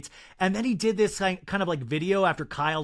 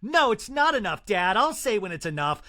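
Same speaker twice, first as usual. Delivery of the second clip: defiant daughter. Retold or imitated. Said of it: "rebellious youth".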